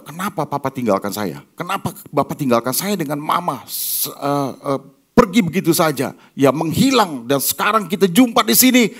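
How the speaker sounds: a son confronting the father who left; reproachful son. Retold or imitated.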